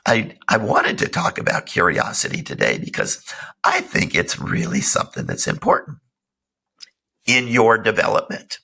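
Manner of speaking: hoarse from a cold; rough, hoarse voice getting over a cold. Real, not acted. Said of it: "I apologize for my, my sort of laryngitis".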